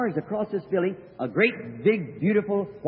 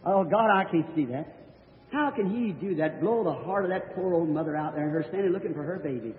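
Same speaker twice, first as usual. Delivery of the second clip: near tears; 2 semitones lower, 4 dB quieter than usual. Retold or imitated. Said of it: "I was almost crying".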